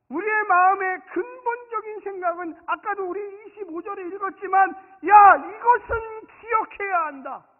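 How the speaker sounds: loud, high sermon proclamation; high-pitched, forceful pulpit delivery; full-force preaching. Real, not acted. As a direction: drive it home to the whole congregation.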